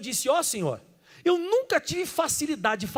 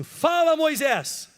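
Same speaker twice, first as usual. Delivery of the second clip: calling out; 4 semitones higher, much slower than usual. Shown as a demonstration. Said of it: "Fala assim em voz alta assim".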